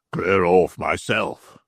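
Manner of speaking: a worried man swearing under his breath; Stracey's voice. Acted.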